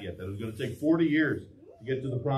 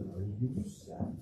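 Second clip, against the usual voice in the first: softer, tender retake of the promise; gentle repeat; 5 semitones lower, 8 dB quieter than usual. Shown as a demonstration. Preacher repeats God's promise to congregation, softer and tender. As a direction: ease into it like a comfort. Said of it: "Yeah, Sabbath".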